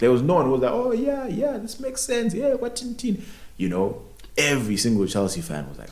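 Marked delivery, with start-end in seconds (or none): 0.7-3.2 high-pitched mock agreement; mock approval. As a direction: put on a high, eager yes-man voice. Mock quote of someone approving.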